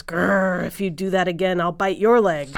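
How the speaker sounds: loud storybook dog warning; growl, then threaten firmly. Acted.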